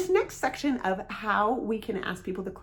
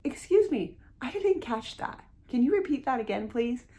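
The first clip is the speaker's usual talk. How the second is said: confident; 3 semitones higher than usual. Shown as a demonstration. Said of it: "confidently say".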